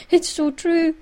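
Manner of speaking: high, laughing agreement; real amused squeak. Real, not acted. Reader laughs at her reading.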